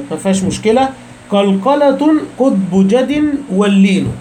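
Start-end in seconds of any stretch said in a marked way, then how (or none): 1.3-4.1 slow, measured recitation of a poem line; slow verse recital. Shown as a demonstration. Teacher reciting a line of the poem to students, slow and measured. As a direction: recite the verse slowly, each word drawn out.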